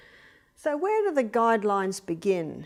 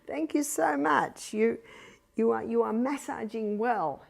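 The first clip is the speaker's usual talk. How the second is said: slow fond thanks. Shown as a demonstration. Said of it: "we'd say".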